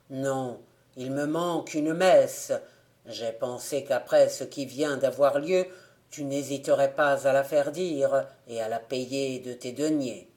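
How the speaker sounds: a dead man letting go of a grudge; forgiving ghost. Acted.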